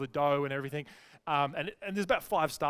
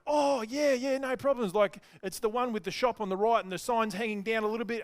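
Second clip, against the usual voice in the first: higher, rattled-off breezy directions; 4 semitones higher than usual. Retold or imitated. Friend giving directions to a lost driver, breezy and higher. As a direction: reel off directions as if it's easy.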